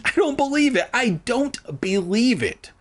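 high-pitched exclaiming, slowing on the repeat; hammed-up astonished joy; excited disbelief. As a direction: gush in amazement, then stretch it out. Castaways overjoyed at finding land.

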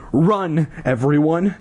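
restrained megaphone shout; mock shout. A narrator's reading. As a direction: call a warning to the crowd. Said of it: "shouted into the megaphone".

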